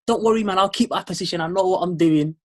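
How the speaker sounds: lightly voiced side chick promising loyalty; mock reassuring side chick. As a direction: play up the don't-worry act a little. Voices side thing's reassurance in a story.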